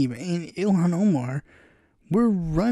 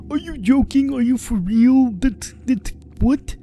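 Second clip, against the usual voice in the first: incredulous; 7 semitones higher, 4 dB louder than usual. Retold or imitated. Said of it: "some people literally told me".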